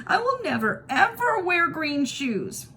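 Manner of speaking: put-on high, slow, drawn-out child's whine; childish wailing refusal. A narrator's reading. Kirsty refusing her sister's green shoes, high whine. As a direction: stretch it out like a pouting little girl.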